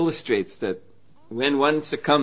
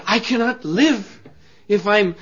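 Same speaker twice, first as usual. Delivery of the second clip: indignant; 5 semitones higher, 4 dB louder than usual. Acted. Wife's indignant protest.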